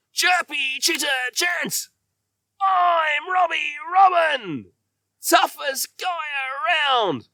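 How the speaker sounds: very high, loud, slow cry of a furious little bird; furious Robbie Robin. Acted. Robbie yells his chant at Jasper Jay, very high and loud. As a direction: screech it at the intruder. Robbie even more upset.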